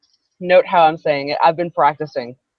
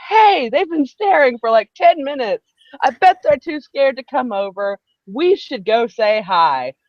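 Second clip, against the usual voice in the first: imagined singer; 5 semitones higher, 3 dB louder than usual. Retold or imitated. Imagined quote from the band's singer.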